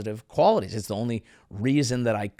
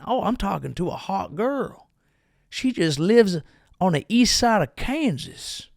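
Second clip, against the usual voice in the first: gullible dude; 6 semitones higher than usual. Retold or imitated. Voicing gullible guy online.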